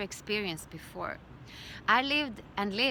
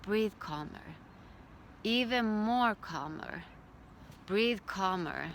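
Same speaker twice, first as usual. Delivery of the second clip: calming instruction. Retold or imitated. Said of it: "she just told me".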